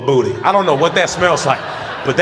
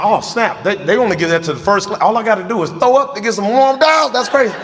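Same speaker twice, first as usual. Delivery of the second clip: higher, giddy, laughing at the end; mock excited; 7 semitones higher than usual. Joking to viewers about getting first-class towels, high and giddy. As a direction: play up the thrill of a perk.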